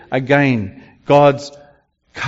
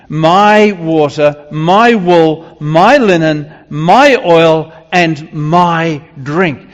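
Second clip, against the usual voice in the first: proud boast; 5 dB louder, slower than usual. Acted. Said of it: "so Israel was saying".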